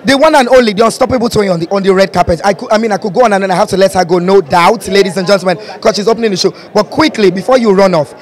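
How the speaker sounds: hyped red carpet host intro; gushing red carpet chatter. Acted. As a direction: announce her like a star arriving.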